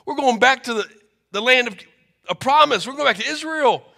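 overjoyed mother. Acted. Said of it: "mother reacts to son".

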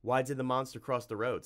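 snapped. Acted. Tim menacing the monster with a joke, snappy. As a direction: fire the riddle as a threat. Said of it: "snapped Tim".

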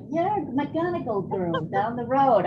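slow, lilting mock local; imitated Irish local. Hitchhiker insisting the driver is a local girl, lightly imitated local. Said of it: "They're like".

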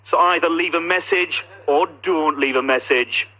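record a phone greeting like the show; answerphone message in announcer voice. Pretend. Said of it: "put your phones next to the T V and record".

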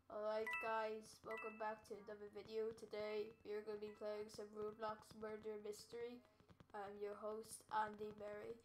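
put-on host the intro in a shaky Scottish accent; mock Scottish YouTuber greeting; Scottish accent attempt. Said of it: "I'm trying to do Scottish".

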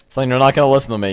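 mock lecture. Lecturing the character.

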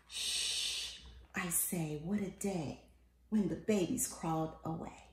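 soft, hushed whisper of the refrain. A narrator's reading. Parent hushing over a sleeping child, soft and hushed. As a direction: hush so the sleeper stays asleep.

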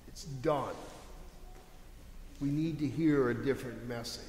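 Peter quietly taking Jesus aside; confidential aside. Acted. Peter privately tells Jesus to drop it, in a hushed aside. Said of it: "putting his arm around him and guiding him away".

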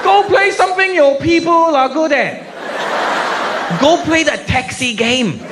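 high, slow mocking yell at a bad player; angry yell. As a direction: yell at him for wasting the machine. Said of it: "He starts yelling at me".

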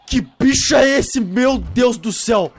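high, loud frightened shout; panicked shout. Real, not acted. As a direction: scream in sudden panic. Scared by flying monster.

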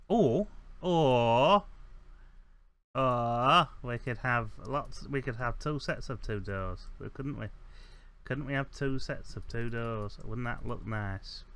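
hammed-up Northern English accent. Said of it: "ceremonial, uh, northern accent".

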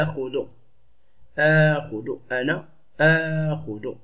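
آخذ opening on a clear glottal stop and long aa; hamza pronounced. Shown as a demonstration. Teacher showing a hamza that is always pronounced, آخذ with a clear drawn-out start. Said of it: "وتنطق دائمًا".

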